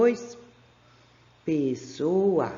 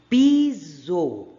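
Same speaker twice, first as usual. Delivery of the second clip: louder, stressing the Z sound; loud model reading; 6 dB louder than usual. Shown as a demonstration. Teacher asks which sound, reading the word loudly. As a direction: read it out loud for the class. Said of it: "Qual é o som?".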